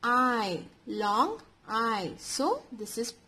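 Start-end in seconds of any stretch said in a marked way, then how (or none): 0.0-2.1 I said as a drawn-out "eye"; long I sound. Shown as a demonstration. Teacher names the sound for children, long I. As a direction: hold the I as a long, isolated "eye". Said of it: "We are pronouncing this as".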